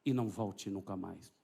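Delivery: slow, low-pitched order, firmly weighted; low restrained command. Retold or imitated. Preacher ordering the demon out, low, slow and firm. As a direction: command slowly in a low register. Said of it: "Falei baixinho assim".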